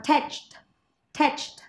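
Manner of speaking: thatched ending in a crisp "cht"; final T sound. Shown as a demonstration. Teacher showing pupils the word ending, final T sound. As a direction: finish thatched on an audible t. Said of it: "em đọc là t".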